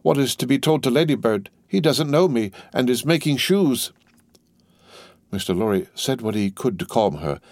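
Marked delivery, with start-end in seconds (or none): 0.0-3.9 high, agitated lament; acted woman in distress; distressed cry. A narrator's reading. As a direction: wail it in a raised voice, despairing. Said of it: "cried she, wringing her hands".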